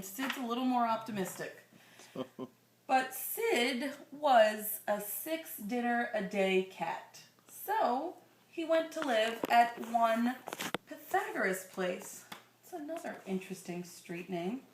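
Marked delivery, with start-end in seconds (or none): 2.9-12.2 put-on slow, gentle read-aloud to a child; storybook reading voice; story narration. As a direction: read it like a bedtime picture book. Reading picture book to child.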